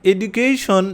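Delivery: slow British "এডুকেশন" with a d sound; British pronunciation of "এডুকেশন", slowly. Shown as a demonstration. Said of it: "ব্রিটিশরা এটাকে অনেকটা".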